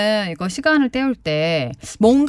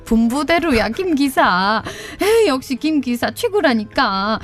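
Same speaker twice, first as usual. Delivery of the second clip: bossy madam. Acted. Skit: madam coaxing chauffeur.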